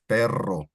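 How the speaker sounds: perro with the double R rolled long. Shown as a demonstration. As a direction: trill the rr in perro. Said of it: "there's two R's".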